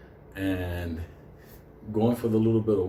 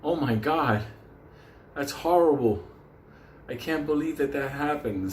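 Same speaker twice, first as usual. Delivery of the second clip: fake sympathy; 5 semitones higher than usual. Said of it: "but he doesn't let it come out".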